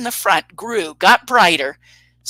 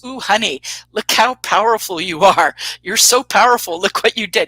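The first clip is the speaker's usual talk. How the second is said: mock-awed teasing; teasing husband; 3 dB louder than usual. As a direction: tease her with exaggerated admiration. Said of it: "He's just getting her a bad time".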